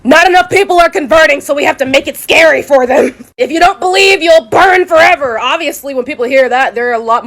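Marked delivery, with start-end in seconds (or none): 0.0-3.1 mock translators. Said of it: "were like". 3.4-5.4 mock preacher. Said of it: "mock hellfire preacher".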